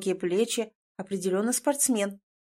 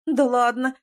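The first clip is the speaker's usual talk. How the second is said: moaned; 7 semitones higher, 4 dB louder than usual. A narrator's reading. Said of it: "простонала".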